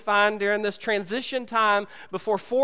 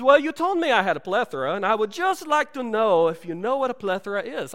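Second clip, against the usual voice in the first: El Guapo voice; 4 semitones higher, 3 dB louder than usual. Retold or imitated. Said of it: "He says".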